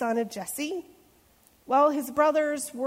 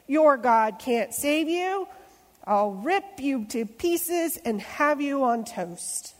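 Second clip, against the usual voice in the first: giant threat; 3 semitones higher, slower than usual. Acted. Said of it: "Goliath bellowed".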